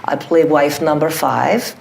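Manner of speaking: put-on Russian accent, unhurried. Actress answering the interviewer's question in her role, Russian accent. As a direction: play the character with a Russian accent. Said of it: "with your Russian accent".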